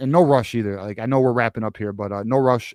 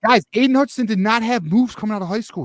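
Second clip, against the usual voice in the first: fired-up defense, pitched up; heated, higher and louder; 8 semitones higher, 4 dB louder than usual. Real, not acted. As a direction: argue it hot and high. Defends his pick, excited.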